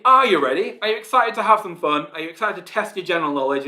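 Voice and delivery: game show host energy; hype-up host call. Acted. Host hyping quiz players up.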